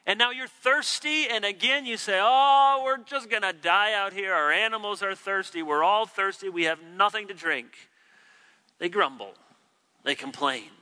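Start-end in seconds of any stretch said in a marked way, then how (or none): 2.2-7.9 whiny complaint. Retold or imitated. Preacher acts out people complaining.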